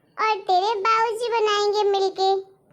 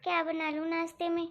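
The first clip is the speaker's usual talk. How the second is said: frightened bride; 3 semitones lower, 9 dB quieter than usual. Acted. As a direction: shrink back, scared she has upset mother-in-law. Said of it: "मैं तो डर ही गई थी". (डरी हुई, धीमी, सहमी हुई आवाज़)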